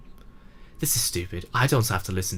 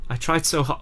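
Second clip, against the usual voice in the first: higher, tearful second take; voice breaking; 6 semitones higher than usual. Acted. Club leader admitting failure to the player, breaking into tears. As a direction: let it crack on tried. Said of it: "I don't normally cry like this".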